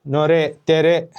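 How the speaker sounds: नोरे तेरे spelled out slowly, each syllable clear; teacher sounding out नोरे तेरे for students; Kannada words slowly. Shown as a demonstration. Student ko नोरे तेरे dheere samjhate hue teacher, slow demo. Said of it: "इसको बोलती हैं नोरे".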